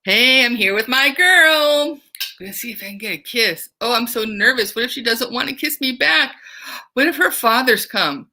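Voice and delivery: swagger, then fret; teacher as Tonio, proud of his girl and then nervous; eager nervous Tonio. Acted. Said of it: "Tonio is feeling".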